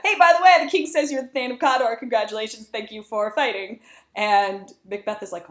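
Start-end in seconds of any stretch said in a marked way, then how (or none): 0.0-3.8 breezy messenger, first words high and loud; casual messenger. Retold or imitated. Messenger bringing Macbeth the news, breezy and chirpy. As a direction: toss off the news like a cheery courier. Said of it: "this messenger comes in and tells Macbeth".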